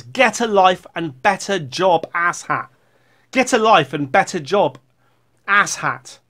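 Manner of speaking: loud, emphatic mock insult; reading in capitals. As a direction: hammer out the all-caps comment. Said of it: "in capital letters".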